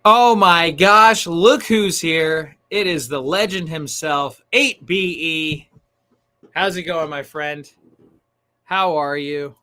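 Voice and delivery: high, drawn-out, loud hype greeting; excited welcome. Real, not acted. Streamer spotting a friend arriving in chat, excited welcome. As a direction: hail a legend's arrival, stretching the words.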